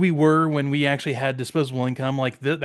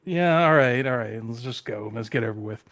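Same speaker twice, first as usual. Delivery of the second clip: sheepish; 3 semitones lower than usual. Retold or imitated. Regular shopper recognized by store staff, sheepish resignation. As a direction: act out reluctant giving in, sinking away. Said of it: "the little shame".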